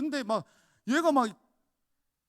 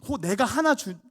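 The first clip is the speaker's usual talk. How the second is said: ordinary talk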